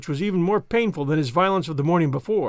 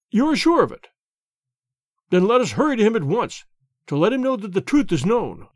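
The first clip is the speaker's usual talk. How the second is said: higher, louder urgency; urgent hope; 4 semitones higher, 3 dB louder than usual. Acted. Banker to Holmes, urgent to reach his son. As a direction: hurry to make amends.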